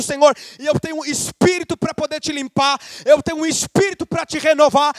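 high, impassioned preaching crescendo; clímax da pregação. Real, not acted. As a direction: build to slow, ringing final phrases. Preaching climax. (pregação inflamada, quase gritando)

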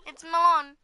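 melon with a full "lon" ending; insistent pronunciation. Shown as a demonstration. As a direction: say "melon" as "MEL-lahn", second vowel open. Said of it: "It's not melon".

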